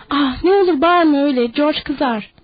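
put-on panicked childlike begging with tears; tearful pleading. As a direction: sob out the begging. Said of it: "diye yalvardı sonra".

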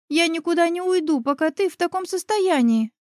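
put-on high, stubborn girl's voice. A narrator's reading. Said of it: "упрямо ответила я". (упрямый девичий голос, выше)

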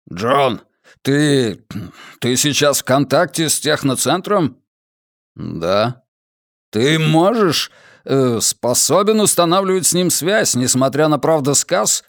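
agitated, halting questions. Acted. Hermund pressing the prisoner, agitated. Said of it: "взволнованный голос Гермонда".

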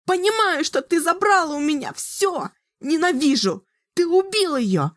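put-on high, furious girl's screaming; young sorceress raging. A narrator's reading. Girl rages at Richard for killing her mother. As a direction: spit out hatred and grief.

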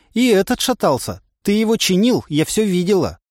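высокий девичий голос с упрёком; упрекни, как обиженная девушка; голос Насти. A narrator's reading. Настя спорит высоким голосом. (девичий упрёк)

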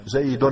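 "زيد" ending in a clearly sounded n, zaydun; final n sounded. Shown as a demonstration. Teacher showing students the hidden noon, "زيد" said zaydun with the n sounded. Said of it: "نلحظ أن هناك نون في آخر الكلمة".

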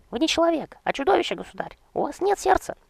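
very high, loud outraged shriek; shrieking cry. Acted. The bride's father screaming from the doorway at the king. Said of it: "выкрикнул с порога".

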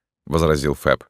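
ordinary delivery, nothing marked

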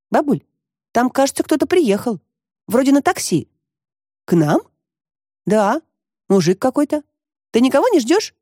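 put-on a young girl telling her grandma; girl's voice. Narrator voices the girl Katka. (голос девочки-подростка, выше обычного)

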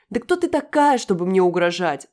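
пронзительно высокое и громкое «кто ты такая»; завизжи в возмущении; визг. A narrator's reading. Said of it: "завизжала Юля". (визг возмущённой Юли)

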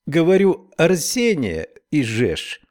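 slow, emphatic Irish brogue; Irish accent. Acted. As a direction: repeat it in a thick Irish accent. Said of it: "с сильным ирландским акцентом".

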